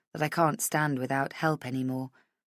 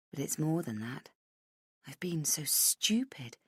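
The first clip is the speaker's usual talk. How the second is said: whisper; 8 dB quieter than usual. A narrator's reading. Hungover Rach berating herself inwardly, whispered. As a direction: breathe it out in self-reproach. Self-reproach in narration.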